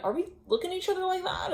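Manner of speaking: high-pitched disbelieving question; incredulous question. Acted. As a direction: ask it high, as if you can't believe it. Acted doubt about a relationship.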